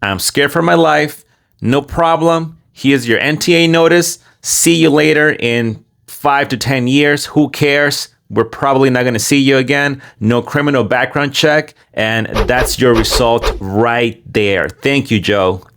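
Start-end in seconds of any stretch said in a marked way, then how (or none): 0.0-1.2 lightly mocking scared claim; a hint of a pleading asylum seeker; mild mock fear; mock pleading migrant. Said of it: "you just walk in and you say". 1.6-11.7 sarcastic hint of an official; mock careless official. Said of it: "you just walk in and you say".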